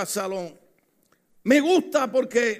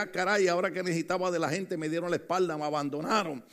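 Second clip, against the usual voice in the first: fast, softer, lower muttered letdown; disappointed muttering; 3 semitones lower, 6 dB quieter, faster than usual. Retold or imitated. Pablo, abandoned by the people, muttering in disappointment. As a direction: rush it under your breath, let down. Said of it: "él veía y decía".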